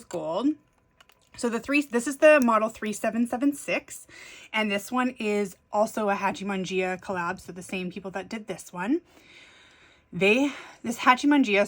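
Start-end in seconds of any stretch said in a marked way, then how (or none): 1.4-11.7 breathless from running upstairs; out of breath. Real, not acted. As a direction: talk while still catching your breath. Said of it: "I'm a little out of breath running upstairs".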